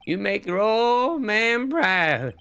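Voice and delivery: a hint of a folksy old dad; old man voice. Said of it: "I can do the voice for him".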